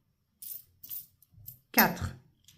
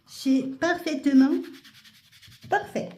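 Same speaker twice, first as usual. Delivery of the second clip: sing-song; 6 semitones higher than usual. Real, not acted. Playful sing-song exaggeration.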